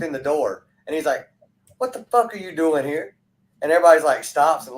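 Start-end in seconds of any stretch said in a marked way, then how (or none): 1.8-3.1 higher-pitched retold New York pizza guy; New York accent. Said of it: "they had the accent and everything".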